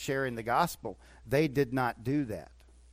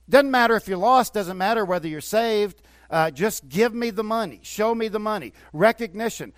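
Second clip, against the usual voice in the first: mock televangelist plea; 5 semitones higher, 5 dB louder than usual. Mocking greedy televangelist.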